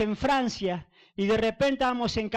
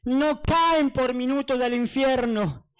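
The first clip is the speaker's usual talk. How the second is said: drawn-out, raised lament, imitating weeping; retold tearful lament; 3 semitones higher, slower than usual. The Lord answers his servant about hell, retold tearful lament. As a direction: retell it as a pained, slow cry. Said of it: "me habló una voz llorando".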